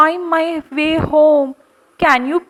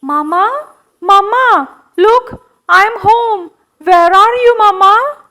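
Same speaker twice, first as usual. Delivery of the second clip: calling out; 4 semitones higher, 4 dB louder than usual. Acted. Monkey calling for his mama.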